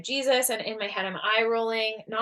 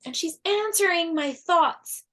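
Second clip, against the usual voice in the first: higher, louder, urgent retelling; overwhelmed retelling; 8 semitones higher, 6 dB louder than usual. Retold or imitated. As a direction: pour out the peak of the strange episode. Retelling peak of shaking episode.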